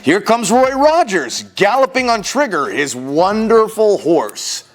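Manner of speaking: animated, theatrical picture-book reading; children's story narration. A narrator's reading. Storyteller reading a parade book to children, animated narration. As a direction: read it out with exaggerated swings of pitch.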